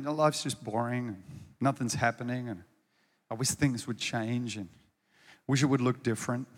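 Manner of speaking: mopey whining. Acted. Mopey complaint quoted after I say.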